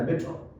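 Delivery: बिटर as "beh-tuh", final r dropped; British pronunciation. Shown as a demonstration. Teacher repeats British बिटर for learners, crisp t, silent r. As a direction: keep the t in बिटर, lose the r. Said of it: "ये इस तरह".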